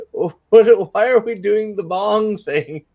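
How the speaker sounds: laughing, high and incredulous; laughing disbelief. Real, not acted. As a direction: laugh out the question.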